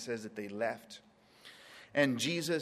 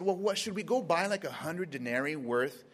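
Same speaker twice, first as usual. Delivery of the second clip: smart-aleck disciples; 3 semitones higher than usual. Retold or imitated. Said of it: "kinda like smart alecks".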